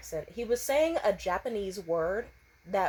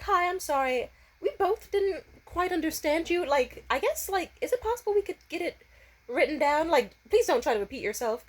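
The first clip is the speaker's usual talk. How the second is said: blunt request; 7 semitones higher than usual. Retold or imitated. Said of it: "or I said it much nicer".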